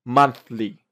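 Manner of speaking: MONTHLY with a clear TH mid-word; careful MONTHLY, air through the TH; TH in the middle. Shown as a demonstration. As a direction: place the TH carefully inside MONTHLY. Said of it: "pronounce them right in the middle".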